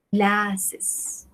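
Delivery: teacher softly repeating glasses. Shown as a demonstration. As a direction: echo glasses quietly. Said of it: "yo digo".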